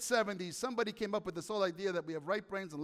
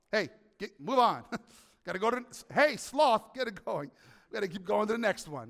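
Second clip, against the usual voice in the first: God hurrying. Pretend. God hurries the sloth along, mock impatience. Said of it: "And then he's like, say".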